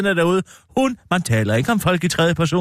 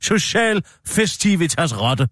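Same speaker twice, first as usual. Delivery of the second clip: slow teasing; 2 semitones higher, slower than usual. Acted. Host teasing guest slowly.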